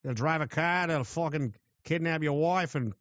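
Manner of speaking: put-on a rough go at an Australian accent; attempted Australian accent. Australia boasting about its deadly creatures, in a shaky Australian accent. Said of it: "I can't do an Australian".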